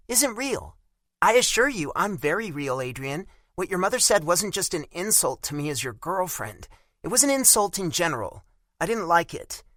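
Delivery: put-on high, sharp offended young woman; Bella angry. A narrator's reading. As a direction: bite back, insulted. Narrator voices Bella, angry.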